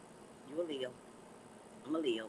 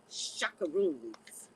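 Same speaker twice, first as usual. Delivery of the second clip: drawn-out play word; 5 semitones lower, much slower than usual. Acted. Playful made-up word.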